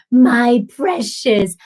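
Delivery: slow, drawn-out creepy creature; hammed-up creepy creature quote. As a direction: stretch each word like a creepy film creature. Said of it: "This really creepy voice".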